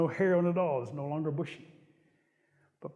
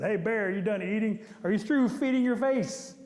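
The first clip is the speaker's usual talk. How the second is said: impatient, rude Rabbit; 4 semitones higher, 3 dB louder than usual. Acted. Impatient Rabbit confronts Bear.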